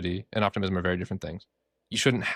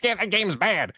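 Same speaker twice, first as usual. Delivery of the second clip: dismissive quote; 10 semitones higher, slower than usual. Retold or imitated. People dismissing a game.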